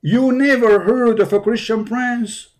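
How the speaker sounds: slow, incredulous, leaning on never; mock disbelief. Shown as a demonstration. Host mock-astonished that the caller never heard of him. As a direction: stretch it out as if you can't believe it. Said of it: "Say it".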